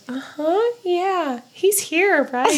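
high, laughing sarcastic mimicry; mock sarcastic girl. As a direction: humor him like he's lost it. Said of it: "she goes".

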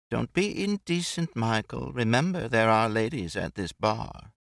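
airy, amused society lady; Brett, light and teasing. Acted. Narrator voices Brett chatting with Jake and Mike, amused. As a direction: tease him lightly about the hat.

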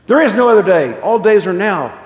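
acted angel overruling an excuse; urgent pronouncement. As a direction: proclaim it with full urgency. Angel rejects ghost's delay.

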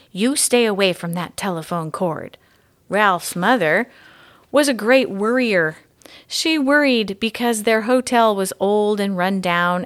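gentle, even read-aloud storytelling; story narration. A narrator's reading. Mystery reader reading the chapter to schoolchildren, storytelling voice. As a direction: read it like a bedtime chapter book.

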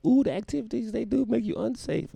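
high mocking critic voice. Host mimicking FBI critics, high mocking voice. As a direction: sneer at the worriers in a high voice.

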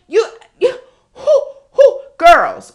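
high, loud, breaking cry; excited cry. Real, not acted. Excited shout to girls.

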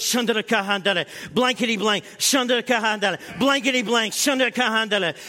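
fast rhythmic mix of tongues and blanks; playful imitation of both passengers at once; mock tongues and cursing. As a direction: chant it fast, swapping tongues and bleeps. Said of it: "Jenny's sitting here and goes".

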